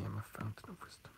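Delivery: whispered, mock-mysterious boast; playful whisper. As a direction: breathe it like a secret sage. Mock-wise aside.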